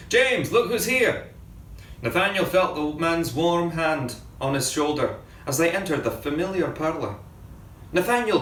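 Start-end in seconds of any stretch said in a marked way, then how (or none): 0.1-1.3 shouting inside. A narrator's reading. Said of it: "shouting inside". 7.9-8.4 high eager cry of a name; cried out. A narrator's reading. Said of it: "cried James".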